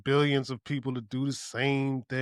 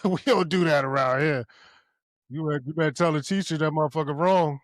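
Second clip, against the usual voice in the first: louder, laughing refusal; dismissive parent; 4 dB louder than usual. Retold or imitated. Parent overruling daughter about the teacher, dismissive. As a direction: shut the kid down with amused force.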